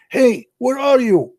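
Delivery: high, slow commanding husband voice; hammed-up bossy husband calling out; mock shouting husband. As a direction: bark orders at the wife. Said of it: "he shouted to his wife".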